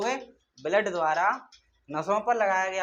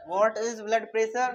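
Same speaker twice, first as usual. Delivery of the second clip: slow; 3 semitones higher, much slower than usual. Shown as a demonstration. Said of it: "teacher poses question to class".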